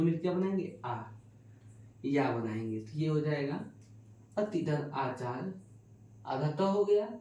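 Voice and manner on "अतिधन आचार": slow breakdown. Shown as a demonstration. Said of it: "teacher splitting the sandhi parts".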